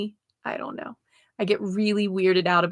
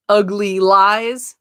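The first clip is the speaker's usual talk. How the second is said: UGLY LIES louder, drawn out slowly; loud emphatic; 5 dB louder, much slower than usual. Real, not acted. Reader passes on the card's loudest message about self-lies, loud emphatic. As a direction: hit "ugly lies" hard and slow. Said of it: "Ugly lies was the loud one".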